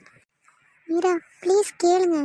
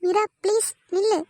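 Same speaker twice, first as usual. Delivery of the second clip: higher, pleading call after her; desperate plea; 4 semitones higher than usual. Acted. Arun begs Meera to stop as she walks away, pleading.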